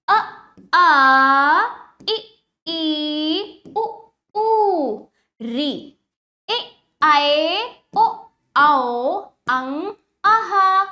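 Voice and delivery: isolated vowels, long ones held out; vowel drill. Shown as a demonstration. Teacher drilling vowels without pictures, clear recitation. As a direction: recite short अ, then long आ, pausing between. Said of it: "सीधा सीधा उच्चारण करेंगे बिना चित्रों के".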